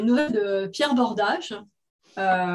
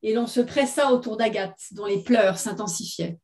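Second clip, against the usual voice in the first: measured literary read-aloud; story narration. A narrator's reading. Author reading her short story to listeners, story narration. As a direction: read it as written fiction, phrase by phrase.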